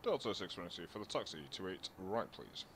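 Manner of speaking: thin, distant radio voice; air traffic control radio. Real, not acted. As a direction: speak as if over a cockpit radio. Pilot radio call to tower.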